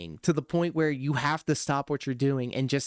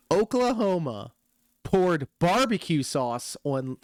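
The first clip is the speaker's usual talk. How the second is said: Jim Ross style call. Retold or imitated. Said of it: "My impersonation of P W R".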